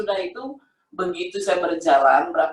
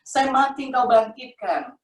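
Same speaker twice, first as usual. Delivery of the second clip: retold prayer in a raised pitch; calling on Jesus; 4 semitones higher than usual. Blinded woman calling to Jesus for healing, retold plea. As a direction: plead upward at normal volume. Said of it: "saya panggil".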